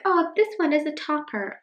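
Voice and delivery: quoted past self. Retold or imitated. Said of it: "I was like".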